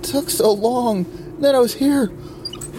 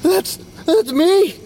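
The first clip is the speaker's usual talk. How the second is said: wounded soldier gasping; 6 semitones higher than usual. Acted. Ghost sees own body.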